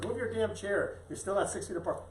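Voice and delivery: lightly voiced nagging order; mock scolding. Sister's scolding quoted.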